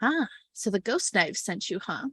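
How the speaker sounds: soft, hushed whisper. Game narrator voices a woman leading the players aside in a store, whispering. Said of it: "she kind of whispers".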